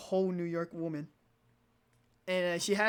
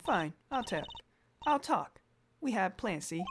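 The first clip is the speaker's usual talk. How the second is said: put-on New York gangster accent. The witness finally confessing, in a New York gangster accent. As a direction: give it up like a New York crook. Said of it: "she has to have a New York accent".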